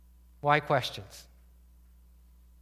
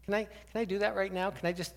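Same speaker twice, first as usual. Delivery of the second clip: gentle offer to pray; 5 semitones higher, 5 dB quieter than usual. Retold or imitated. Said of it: "brave enough to say".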